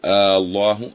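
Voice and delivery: آه stretched long with a rise at the start of الله; wrong drawn-out hamza. Shown as a demonstration. Teacher demos the wrong stretched آه الله. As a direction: draw out the opening آه like a question. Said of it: "كان يقول".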